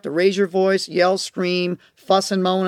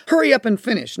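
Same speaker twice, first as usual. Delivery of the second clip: nagging parent; 5 semitones higher than usual. Retold or imitated. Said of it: "another way to talk is".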